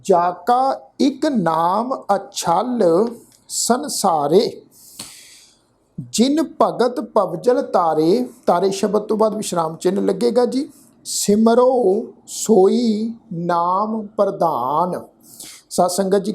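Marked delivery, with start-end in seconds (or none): 0.0-8.3 slow, drawn-out verse; measured Gurbani recitation; scripture recitation. Shown as a demonstration. 11.1-15.0 slow, drawn-out verse; measured Gurbani recitation; scripture recitation. Shown as a demonstration.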